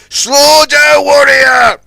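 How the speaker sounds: high, loud warning shout; a shouted warning to a speeding tug; yelled. A narrator's reading. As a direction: bellow across the harbour. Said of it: "he yelled".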